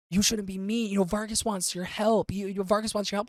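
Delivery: a hint of a pleading little fairy; Pluck's voice. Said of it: "where he goes".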